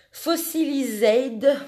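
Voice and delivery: English name drawn out in a French accent. Real, not acted. Crafter reading an ink colour's English name, French accent. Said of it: "désolée pour mon accent".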